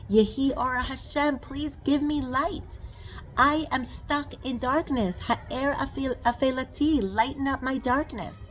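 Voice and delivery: slow, lifted plea to God; pleading prayer. Acted. Praying for light.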